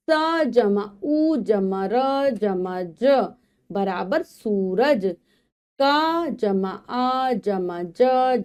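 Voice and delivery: slow syllable blending, then the sentence; phonics reading aloud. Shown as a demonstration. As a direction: sound out each letter for young learners. Spelling words with plus signs.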